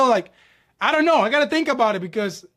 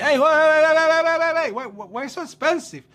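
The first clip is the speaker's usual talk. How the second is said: retold protest; 5 semitones higher than usual. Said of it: "I said".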